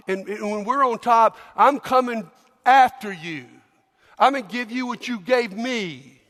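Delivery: resentful peasant threatening the Roman; bitter threat. Acted. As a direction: spit the warning at him. Angry Jewish man threatens.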